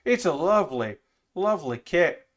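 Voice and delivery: hammed-up Irish lilt; playful, wobbly attempt at an Irish accent; Irish brogue. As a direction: put on a mock Irish brogue. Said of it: "an Irish brogue".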